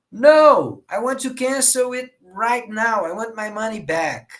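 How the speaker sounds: firm, put-out complaint; indignant customer. Acted. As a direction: open on a loud NO, then insist. Acts customer demanding refund.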